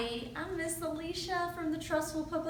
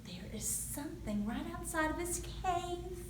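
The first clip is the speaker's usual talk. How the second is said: put-on lively read-aloud for young kids; storytime narration. A narrator's reading. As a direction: tell it like a picture book at the library. Reads picture book to children.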